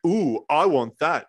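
mildly excited customer, drawn out; slow, mock-impressed wanting; retold excitement. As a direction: play a lightly eager "ooh". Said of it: "walks in all excited and he's like".

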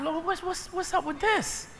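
a hushed, puzzled complaint to God; retold muttered prayer. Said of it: "So I said".

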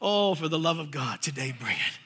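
low, soft muttering to himself; under his breath, bracing for the fight. Retold or imitated. Preacher muttering to himself before facing the demoniac. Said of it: "I say it to myself".

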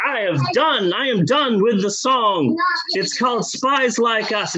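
mock-proud singer boasting of the finished song; proud announcement. A singer leaving the studio, announcing the song with mock pride. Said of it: "And he's all proud".

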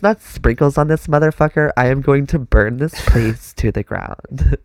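put-on Valley Girl voice. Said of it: "That Valley Girl shit".

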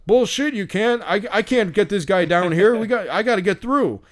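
high-pitched mock tirade; imitated hot-tempered outburst. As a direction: play an irate man refusing to back down. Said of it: "came out so fucking hot".

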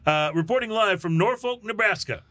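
lightly hammed-up reporter sign-off; a touch of newsroom gravity, played for laughs; mock news sign-off. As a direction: wrap it up like a field reporter, tongue in cheek.

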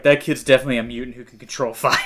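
laughing through a quick mock quote. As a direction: rattle it off while laughing.

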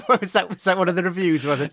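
high-pitched question through laughter; laughing, words breaking out high. Real, not acted. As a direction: ask it while cracking up. Cracks up at co-host's wine joke.

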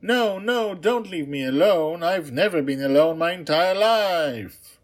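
very high, loud frightened begging; panicked princess. Acted. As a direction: plead high and scared not to be left. Princess begs not to be left.

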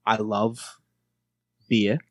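halting Australian accent practice. Shown as a demonstration. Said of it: "We'll do it in Australian".

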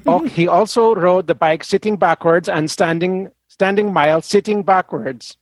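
put-on reading in a Swedish accent. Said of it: "the horrible Swedish accent".

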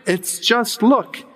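slow, high and drawn out on "look"; "It's just look" with "look" held long and high; stress on look. Retold or imitated. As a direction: lean hard on "look", slow. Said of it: "The preacher began thus".

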